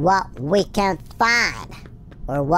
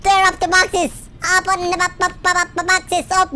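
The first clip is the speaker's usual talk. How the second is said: panicking gamer; 11 semitones higher than usual. Real, not acted. Scrambling up boxes fleeing.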